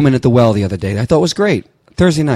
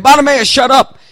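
telling off; 12 semitones higher, 3 dB louder than usual. Acted. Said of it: "they're telling Bartimaeus".

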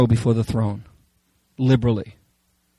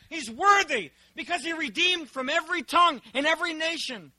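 much higher and softer, an awed heavenly chant; heavenly creature voice; 14 semitones higher, 4 dB quieter than usual. Acted. Preacher voicing the four living creatures praising the Lamb, high and hushed. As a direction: cry "Amen" high and hushed like a creature round the throne. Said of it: "The four living creatures".

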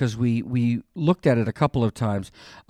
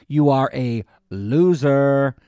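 slow, drawn-out schoolyard taunt; mock taunt; 2 semitones higher, slower than usual. Resurrection on the tomb taunts death, slow mock jeer. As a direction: jeer it out slowly like a playground taunt. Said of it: "Am I doing this the right way?".

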